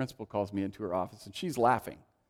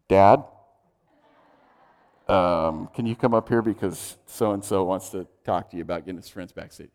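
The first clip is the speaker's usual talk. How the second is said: calling out; 4 semitones lower, 6 dB louder than usual. Retold or imitated. Calling dad over.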